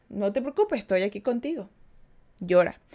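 gentle, softened voice of a consoling friend; comforting friend. Acted. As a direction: softly reassure someone who is crying. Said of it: "Tiene que alguien venir a decir".

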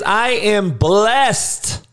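slow drawn-out "I am blessed" with blessed stretched; slow careful blessed. Shown as a demonstration. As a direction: spell out "blessed" slowly, clear final d sound. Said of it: "You ain't saying it right".

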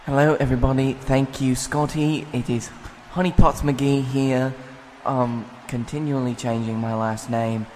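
loud, eager wrestling interviewer; bright shouted backstage report. Acted. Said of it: "Guy Fieri's backstage right now with one of our top interviewers".

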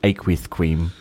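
s on aqueous said as th, aqueouth kweam; lisp. Shown as a demonstration. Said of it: "it's just good with a lisp".

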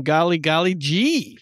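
slow, sweet aw-shucks; fake wholesome. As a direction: put on a wholesome voice. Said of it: "I could go from motherfucker to golly gee".

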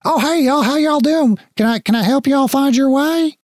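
a chipper guard greeting the party up high; friendly guard. Acted. Guard greeting arrivals at the lift doors, high and chipper. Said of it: "a guard leans over and looks in and goes".

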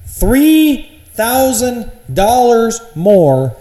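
slow, loud, stretched indignation; emphatic outrage. Real, not acted. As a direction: lean on every word in disbelief. Ranting about price hike.

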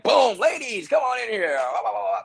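strut in like you own it; hammed-up confident entrance call; swaggering entrance. Swaggering entrance, much higher.

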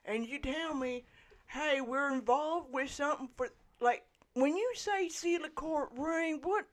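put-on gruff toothless old man; gummed grumbling old barkeep. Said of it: "It's my old man voice".

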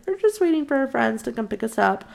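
high-pitched, casual cover-up; feigned innocence. Retold or imitated. Girl making excuses to her bishop, feigned innocence.

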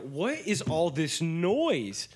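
put-on slow, grumbling old man; crotchety grandpa asking; grumpy old man. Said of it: "You sound like a grumpy old man".

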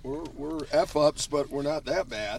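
lightly voiced dopey guy, slow; slow, slack jawed dopey voice; dopey O'Connell impression. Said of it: "that was my dopey O'Connell impression".

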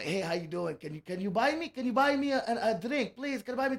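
put-on slurred, pleading Irish drunk that drifts toward Russian; drunk Irish accent. Comic telling a bar joke, pleading as the drunk Irishman in a slurred Irish brogue. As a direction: beg for a drink in a wobbly Irish brogue. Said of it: "why does that Irish guy sound Russian".

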